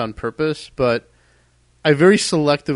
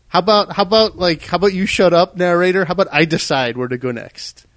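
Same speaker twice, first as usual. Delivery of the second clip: raised, higher voice telling the narrator off; exasperated retort; 3 semitones higher, 3 dB louder than usual. Retold or imitated. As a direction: snap back at the bossy narrator, fed up. Shouting at the narrator.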